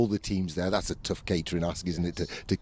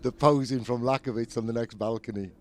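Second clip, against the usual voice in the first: laughing while talking; 3 semitones higher than usual. Real, not acted. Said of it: "I'm laughing at the posing".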